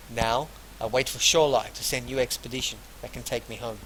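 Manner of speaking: deliberate, projected reading of a character's lines; read-aloud dialogue. Acted. Player voices Masha about her lands, deliberate read-aloud. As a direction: read the dialogue out without an accent.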